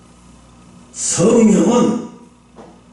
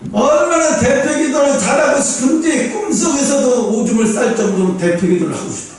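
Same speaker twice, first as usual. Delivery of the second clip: higher, intense start on "얼마나", then rushing fast; earnest longing; 5 semitones higher than usual. Shown as a demonstration. Preacher showing true longing to lead prayer, intense and fast. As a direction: pour out a desperate, sincere wish. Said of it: "그 진심인 거예요".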